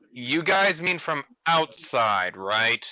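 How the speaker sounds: slow, deliberate deadpan question; dry, slowed-down questioning. Acted. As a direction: ask it deadpan, drawing out the words. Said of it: "in the most deadpan tone".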